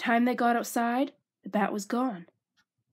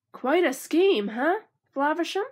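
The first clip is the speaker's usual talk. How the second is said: taunting villain; 6 semitones higher, 4 dB louder than usual. Acted.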